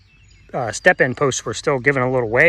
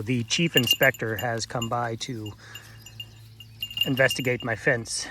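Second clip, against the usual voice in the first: mock-official; 5 dB quieter than usual. Real, not acted. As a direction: announce it like a dry official joke. Mock-formal announcement.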